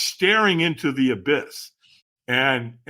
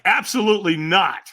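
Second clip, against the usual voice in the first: higher, firm refusal with some humor; emphatic refusal; 4 semitones higher than usual. Acted. Answering whether to walk tonight, emphatic refusal. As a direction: refuse outright, amusing the listener. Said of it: "I said it about that way".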